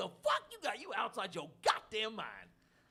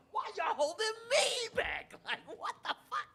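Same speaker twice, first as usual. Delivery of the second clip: outraged re-enactment; 12 semitones higher than usual. Retold or imitated. Re-enacting being held back.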